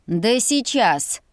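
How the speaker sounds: slow thunderous mock roar; a mild slow roar from the mother; mother's roar. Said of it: "Рык мамы был подобен грому".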